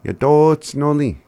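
Yadotsnoli called out high and loud, bright and cheerful; happy demo. Shown as a demonstration. Teacher showing learners how to sound happy. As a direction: belt Yadotsnoli out like you're delighted. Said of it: "to sound happy".

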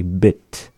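bit ending on a clean T sound; root-word T. Shown as a demonstration. Teacher giving the English singular, bit with a plain final T. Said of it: "as their root word".

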